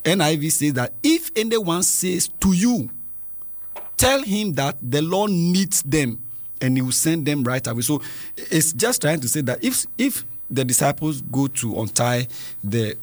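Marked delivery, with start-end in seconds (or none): 1.0-7.8 slow reading, pitched up at the start; scripture reading. Real, not acted. Host compares Bible versions for children, slow reading. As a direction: spell out the verse phrase by phrase.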